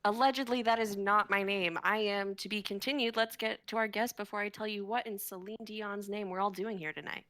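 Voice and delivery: a hint of a smarmy host; lightly voiced game show host. Host greeting the contestants, as a lightly played game show host. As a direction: welcome the crowd like a cheesy host.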